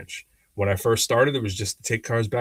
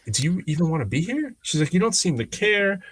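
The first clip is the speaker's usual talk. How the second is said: challenging manager; 7 semitones higher than usual. Retold or imitated. Manager's pep talk, retold.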